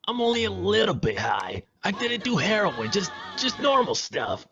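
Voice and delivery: put-on high-pitched slurring drunk; slurred drunk. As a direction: slur like you're high. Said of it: "You're slurring your words".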